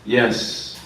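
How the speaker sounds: lightly put-on fortune-teller voice with measured pauses; imitation psychic giving a reading; mock fortune teller. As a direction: pretend to read the future, pausing between phrases. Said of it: "Somebody like to do fortune telling".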